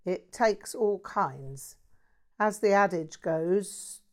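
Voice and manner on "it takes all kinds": slow, puzzled echo of the phrase; slowly drawn-out bewildered reply; baffled. Acted. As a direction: repeat it, not sure what he means. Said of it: "in a somewhat baffled tone".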